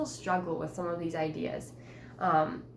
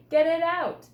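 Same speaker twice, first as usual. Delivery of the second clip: panicked; 10 semitones higher, 11 dB louder than usual. Acted. Mouse in her boot.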